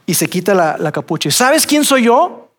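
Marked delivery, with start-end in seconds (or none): 1.3-2.5 higher, slow confronting ask; challenging question. Retold or imitated. Missionary confronting the hooded man, high and slow. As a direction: put him on the spot. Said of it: "le dice".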